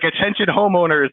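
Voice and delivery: lightly voiced megaphone announcer; megaphone announcement. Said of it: "like, a megaphone".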